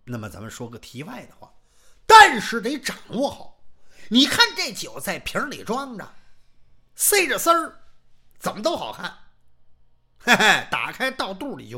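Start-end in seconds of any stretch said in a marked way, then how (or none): none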